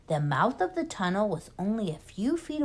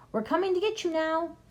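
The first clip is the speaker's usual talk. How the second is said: taunting; 10 semitones higher, faster than usual. Acted. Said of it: "yelled Bunce".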